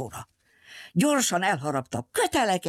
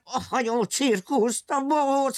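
villain forbidding; 9 semitones higher than usual. Acted. Circus owner forbids the ship circus, bossy and high. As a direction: lay down the law like a petty tyrant.

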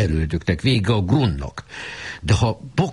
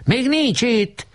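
distant answer; much slower than usual. A narrator's reading. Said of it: "Egy hang felelt".

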